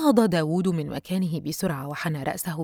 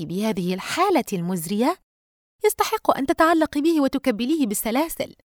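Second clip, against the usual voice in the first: lightly voiced lively friend, rising higher at the end; teasing best friend; 4 semitones higher than usual. Friend urges Yusra to cling to the visitor, teasing. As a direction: build to an emphatic tease.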